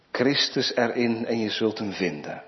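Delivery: usual speaking voice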